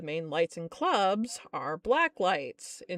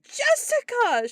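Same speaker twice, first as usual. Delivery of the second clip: exasperated cry; 13 semitones higher, 6 dB louder, slower than usual. Retold or imitated. Boss exasperated at employee.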